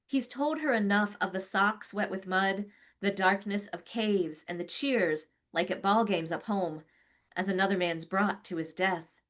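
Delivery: measured, rhythmic poem reading; poetry reading. Acted. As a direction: read it like a long flowing ballad. Poet reads her poem.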